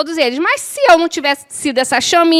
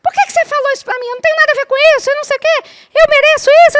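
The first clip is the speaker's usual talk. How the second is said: much higher, fast, put-on complaining voice; hammed-up high rant about being wronged; mock whiny outburst; 13 semitones higher, much faster than usual. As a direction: squeak out a fake tantrum at speed. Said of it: "se eu continuasse lá gritando".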